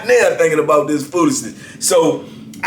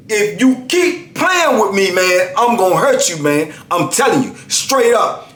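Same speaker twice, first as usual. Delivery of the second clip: slow, higher threat; menacing threat; 4 semitones higher than usual. Retold or imitated. Narrator threatening the inmate at his door, slow menace. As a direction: threaten him slow and steady. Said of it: "I hit his door so hard".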